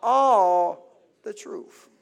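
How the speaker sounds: all the truth drawn out slowly, all lifted; slow, weighted emphasis on all; key words stressed. Shown as a demonstration. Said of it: "Here's the key words".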